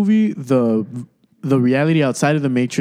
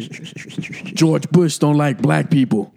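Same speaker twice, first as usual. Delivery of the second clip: slow quote; 3 semitones higher, much slower than usual. Pretend. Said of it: "I'm gonna say something racist real quick".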